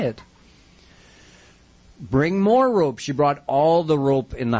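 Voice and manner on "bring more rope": higher-pitched acted order; mild calling out. Mother orders the servants to fetch rope, mild calling out. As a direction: call out a command, lightly raised.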